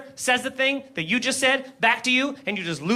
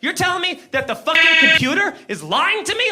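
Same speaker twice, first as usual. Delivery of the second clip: retold yelling cop; 5 semitones higher than usual. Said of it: "he starts screaming at me".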